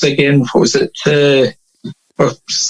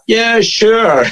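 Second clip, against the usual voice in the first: imitated film actor, higher pitch; P H Moriarty; 6 semitones higher than usual. Actor mistaken for someone else agrees to sign, imitated put-on voice. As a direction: play along casually as the mistaken celebrity. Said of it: "he just goes like that".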